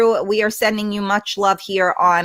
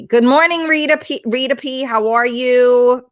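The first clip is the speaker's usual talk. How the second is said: excited greeting; 5 semitones higher, 4 dB louder than usual. Real, not acted. Streamer calling greeting to viewer.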